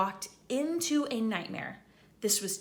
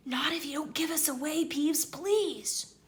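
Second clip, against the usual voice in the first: higher, quick coaxing plea; Harry, pleading; 6 semitones higher than usual. Acted. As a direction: talk Peeves round fast. Harry bargaining with Peeves.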